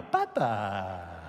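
"Papa" said low and falling; Swahili Papa. Shown as a demonstration. Preacher showing the crowd his new Swahili word. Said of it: "I speak Swahili now".

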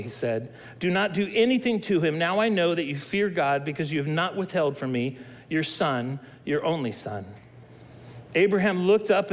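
calm, measured Bible reading; scripture reading. Acted. Reads Genesis 22 aloud.

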